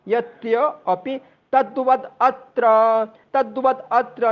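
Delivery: तद्वद अत्र with full तद्वद; तद्वद अत्र clearly; pronunciation demo. Shown as a demonstration. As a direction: keep तद्वद then अत्र. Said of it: "तद्वद अगर बोलेंगे तो अत्र".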